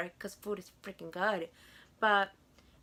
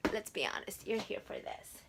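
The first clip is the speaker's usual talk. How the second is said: hushed aside; 5 dB quieter than usual. Real, not acted. Confiding aside to viewers.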